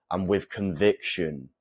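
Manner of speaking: slow conviction, then a pause; slow down and let conviction hang; pause on the end. Shown as a demonstration. Coach showing viewers an ending pause, slow with conviction. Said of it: "I put a pause on the end".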